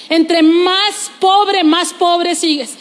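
very slow, dragging each pobre; drawn-out mock lament. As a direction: stretch it out like a sigh. Preacher mocks poverty mindset.

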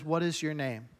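quiet, low and unhurried question; calm. Retold or imitated. Jesus calmly asking the tormented man his name. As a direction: ask it gently, with no fear at all. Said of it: "Jesus just calmly says".

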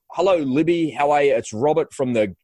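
bright, lifted phone greeting; cold-call voice, lightly done; a hint of a phone sales voice. Shown as a demonstration. To a new contact on the phone, a lightly upbeat cold-call greeting. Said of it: "I talk like this".

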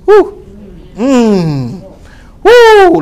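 high whooping cry of excitement; excited preacher whoop. Real, not acted. Pastor catching fire mid-sermon, high whoop. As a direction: let out a joyful whoop.

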